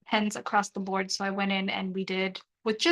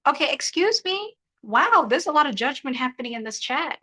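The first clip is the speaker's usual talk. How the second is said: mock offended; 4 semitones higher, 3 dB louder than usual. Real, not acted.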